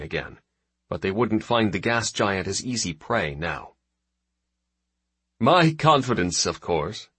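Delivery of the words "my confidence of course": amused, higher with a smile; smiling voice. Acted. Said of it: "with an audible smile in his voice".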